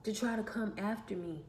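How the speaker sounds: rising into a loud defiant declaration; defiant statement growing to a loud finish; building defiance. Real, not acted. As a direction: build from firm to forceful and loud.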